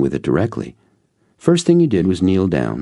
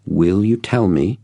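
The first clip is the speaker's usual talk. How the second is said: begging; 4 semitones higher than usual. Retold or imitated. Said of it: "I begged".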